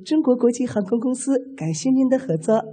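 flight safety demo. Retold or imitated. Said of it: "和风细雨，有曲有调".

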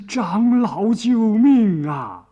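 又高又响、拖长的哭喊; 拉长嗓门高声哭求; 哭嚷呼救. A narrator's reading. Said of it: "又哭又嚷". (高声哭嚷着喊救命)

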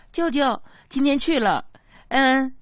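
put-on high little girl answering her uncle; child voice. Niece telling her uncle about kindergarten, childlike and high. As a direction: play the three-year-old niece, sweet and proud.

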